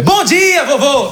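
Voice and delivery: bright, high and chirpy; mock proud Portuguese hello; cheery greeting.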